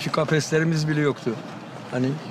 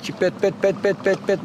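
pressed-out bird call. Shown as a demonstration. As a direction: press out each repeated syllable. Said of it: "bastıra bastıra". (bastıra bastıra kuş taklidi)

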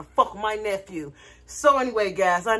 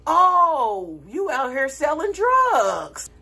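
higher, drawn-out discovery; mock realisation; 4 semitones higher, much slower than usual. Realising the visitors are selling drugs, mock astonishment. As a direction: stretch it out in comic astonishment. Acted realisation about the dealers.

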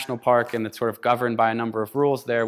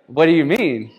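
surprised; 4 semitones higher, 7 dB louder than usual. Retold or imitated. Retold shock at guide's news.

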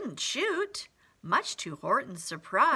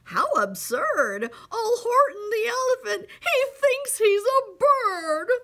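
much higher, loud mocking yell; taunting yell; 10 semitones higher, 6 dB louder than usual. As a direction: jeer at him like a crowd of bullies. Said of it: "they yelled".

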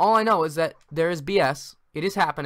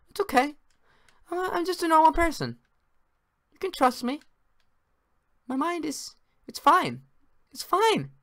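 manic insistence; 9 semitones higher than usual. Pretend. Manic insistence he's fine.

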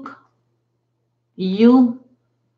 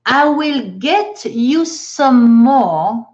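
slow model sentence; 3 dB louder, much slower than usual. Shown as a demonstration. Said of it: "la réponse qui est à la blague".

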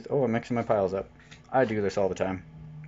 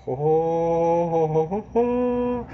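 mock jolly laugh; 5 semitones higher, slower than usual. Gleeful laugh over foil card.

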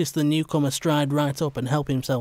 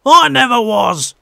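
higher, much louder outraged roar; roaring denial; 10 semitones higher, 12 dB louder than usual. Acted. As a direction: roar it out as you leap up. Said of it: "Hob roared".

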